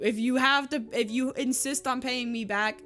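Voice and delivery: insistent retold friend. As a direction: insist as a friend refusing objections. Friend insisting on doing the favor.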